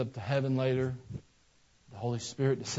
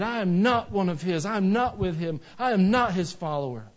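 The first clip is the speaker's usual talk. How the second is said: firm denial, each statement hit hard, pitch raised; adamant; 5 semitones higher, 4 dB louder than usual. Acted. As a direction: insist adamantly, pressing on every refusal. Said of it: "Adamantly said".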